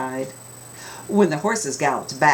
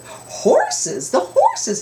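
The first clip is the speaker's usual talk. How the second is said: excited reveal; 4 dB louder, much slower than usual. A narrator's reading. Reveal of arrivals.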